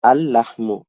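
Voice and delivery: "আল-লাহমু" with a long doubled l; double lam. Shown as a demonstration. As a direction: hold the l between "আল" and "লাহমু". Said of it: "দুইটা লাম লিখতে হবে".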